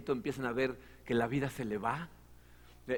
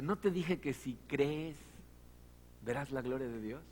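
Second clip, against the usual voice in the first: gentle rebuke; 6 dB quieter than usual. Retold or imitated.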